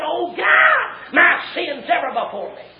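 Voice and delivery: high wail falling away; acted anguished outcry, soaring then dropping; screamed lament. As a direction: cry out to God as a stricken king. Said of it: "he screams out and said".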